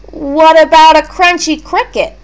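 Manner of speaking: put-on boy Mason tempting his plant; coaxing kid. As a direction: offer the cricket like a treat.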